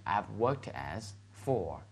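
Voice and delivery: slow, spaced-out pattern recap; slow model phrase. Shown as a demonstration. Teacher recapping the sentence pattern, slow and deliberate. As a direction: lay out each word slowly for learners.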